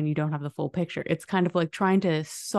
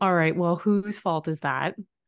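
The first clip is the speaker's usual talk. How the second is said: ordinary delivery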